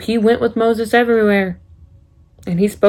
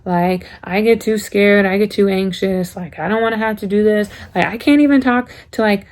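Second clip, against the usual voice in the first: anxious Moses. Retold or imitated. Moses telling God he cannot face Pharaoh, anxious pleading. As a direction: plead your way out, words tumbling fast. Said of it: "He's like".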